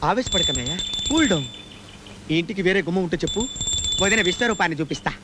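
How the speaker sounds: hushed calming. Acted. Calming the angry brother.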